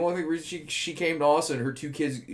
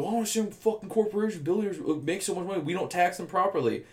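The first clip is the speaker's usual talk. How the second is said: mimicking mom; 6 semitones higher than usual. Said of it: "She was saying, she's like".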